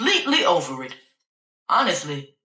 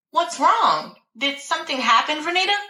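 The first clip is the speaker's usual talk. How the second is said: alarmed doctor; 9 semitones higher than usual. Acted.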